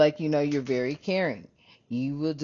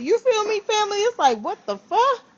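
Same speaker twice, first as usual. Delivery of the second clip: normal talking voice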